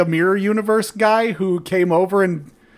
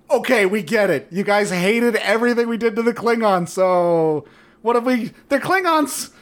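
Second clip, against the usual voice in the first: higher-pitched mock pleading; placating, exaggerated appeal to disgruntled fans; mock apology; 4 semitones higher than usual. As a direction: imitate showmakers begging viewers back. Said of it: "that was just an apology".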